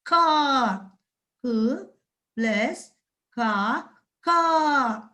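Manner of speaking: क plus आ, sounded out syllable by syllable; careful pronunciation. Shown as a demonstration. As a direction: spell out का slowly, piece by piece. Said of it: "उच्चारण सही तरीके से कीजिएगा".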